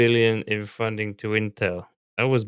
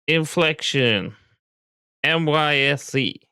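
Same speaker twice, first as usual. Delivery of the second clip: slow dictation; 5 semitones higher, slower than usual. Real, not acted. Dictates to the assistant once more.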